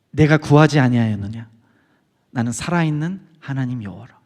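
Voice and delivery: low, solemn voice of God; lightly voiced divine pronouncement, pitched low; 하나님의 음성. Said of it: "이렇게 울리는데 나다". (낮고 엄숙한 하나님의 음성)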